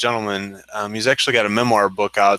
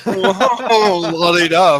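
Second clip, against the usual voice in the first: mock la-di-da; 7 semitones higher, 6 dB louder, much slower than usual. Echoing the la-di-da tease.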